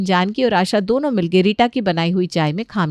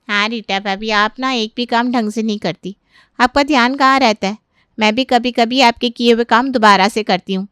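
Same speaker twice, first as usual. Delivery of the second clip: mildly fed-up, building louder; scolding sister-in-law; 2 semitones higher, 3 dB louder than usual. Acted. Sister-in-law scolding Rita for redoing her chores, mildly fed up. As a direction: tick her off for careless work.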